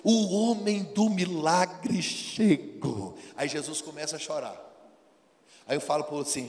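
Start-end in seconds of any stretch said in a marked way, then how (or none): 0.0-3.2 crowd cheering. Retold or imitated. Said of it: "o pessoal falou assim".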